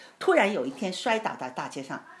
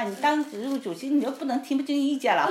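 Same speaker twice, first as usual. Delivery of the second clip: raised, insistent telling-off; acted reproach; 6 semitones higher than usual. Wife reproaching husband for ignoring opinions, acted scolding. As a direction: replay a spouse's heated criticism. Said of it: "我就说他了".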